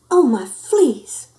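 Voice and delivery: high, loud, drawn-out wail; a worried mother's wail; wailing mama. A narrator's reading. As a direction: wail it slowly in dismay. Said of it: "wailed Mama Junebug Jones".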